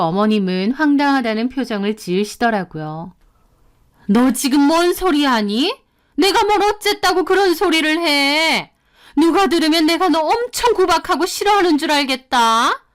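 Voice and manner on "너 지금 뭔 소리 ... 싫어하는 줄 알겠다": higher, indignant mother-in-law voice. Acted. Mother-in-law scolding her daughter-in-law, indignant. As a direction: bristle as the offended mother-in-law.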